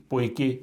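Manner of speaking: पोएके with the final e fully sounded; Swedish final e. Shown as a demonstration. Teacher showing students a Swedish word, final e voiced. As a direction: say पोएके and voice the last e clearly. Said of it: "इसको हम बोलेंगे".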